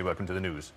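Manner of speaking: "news" said as "nooz", no y; lightly imitated newsreader, "news" yod-dropped to "nooz"; Hugh Edwards. Linguist quoting a Welsh newsreader, "news" as "nooz". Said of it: "Hugh Edwards might say".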